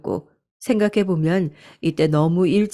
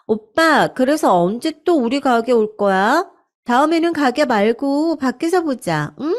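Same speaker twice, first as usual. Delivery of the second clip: flirty mistress voice; 6 semitones higher than usual. Acted. Mistress coos to husband on phone.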